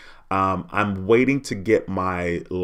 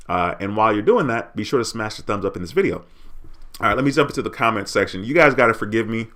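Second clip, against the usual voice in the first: talking while chewing gum. Real, not acted. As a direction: chew gum while you talk. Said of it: "I got this gum in my mouth".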